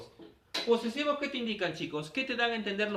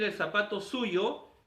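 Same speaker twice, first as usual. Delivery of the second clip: slow example; 2 semitones higher, slower than usual. Shown as a demonstration. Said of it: "En lugar de decir".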